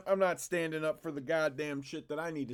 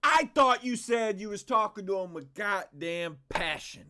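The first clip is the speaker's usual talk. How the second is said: sarcastic jab; 6 semitones higher, 6 dB louder than usual. Real, not acted. Streamer mocking Seth's claim.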